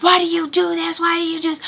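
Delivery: high-pitched imitation of wild yelling; retold frantic screech, not full volume; mock banshee yelling. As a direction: wail it like a banshee. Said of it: "she's yelling wild like a banshee".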